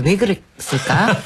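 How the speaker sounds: slowed teacherly question; talking to a child. Retold or imitated. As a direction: imitate a patient kindergarten teacher, slowly. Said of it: "어린애한테 얘기하듯 얘기해요".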